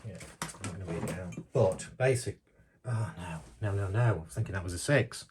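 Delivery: hoarse, fading voice from a tired throat; losing voice. Real, not acted. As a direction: voice going, rough and weak. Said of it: "Sorry, I'm losing my voice".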